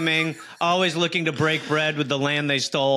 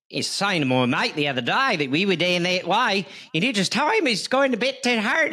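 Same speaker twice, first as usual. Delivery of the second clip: high mock Australian accent with Irish bits; 6 semitones higher than usual. Second try at an Australian accent, pitched up. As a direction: stretch a put-on Australian accent, rising high. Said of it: "let me try Australian".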